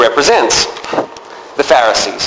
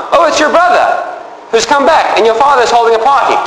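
higher, brisk servant's reply; servant reporting; 6 semitones higher, faster than usual. Retold or imitated. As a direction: rattle off the news as a servant. Servant explains to brother.

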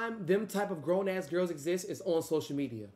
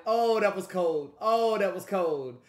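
savoring hype; 6 dB louder, slower than usual. Real, not acted. Savoring the line, slower.

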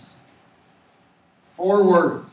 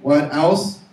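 call and response; 7 dB louder than usual. Shown as a demonstration. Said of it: "Can everyone say how many?".

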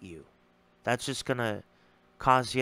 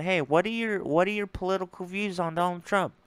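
higher, light and casual asking; friendly question; 6 semitones higher than usual. Retold or imitated. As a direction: keep it breezy, no edge at all. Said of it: "I just said".

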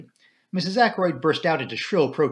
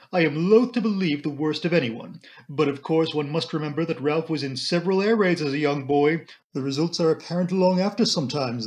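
plaintive matron; 2 semitones higher than usual. Acted.

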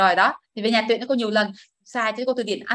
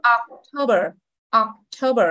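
October with the weight on TO; ocTOber, stressed in the middle; second-syllable stress; much slower than usual. Shown as a demonstration. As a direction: lean on the to in October. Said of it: "Nhấn âm mùa hai".

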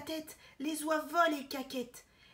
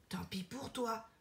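softer slow sigh; a hint of a resigned old stove; 2 semitones lower, 6 dB quieter than usual. Stove sighs reply.

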